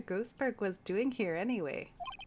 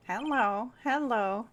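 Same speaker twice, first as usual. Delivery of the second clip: parrot voice; 4 semitones higher, 4 dB louder, slower than usual. Acted. Voicing the parrot Polly.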